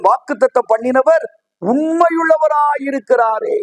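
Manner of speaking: slow, shouted proclamation of the verse; slow preacher's shout; proclaimed verse. Acted. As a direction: ring it out slowly to the whole church. Preacher proclaims key verse aloud.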